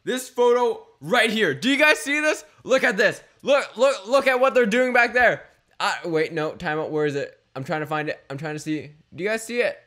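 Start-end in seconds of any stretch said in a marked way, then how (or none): 0.0-5.4 excited. Real, not acted. Pointing at photo, louder.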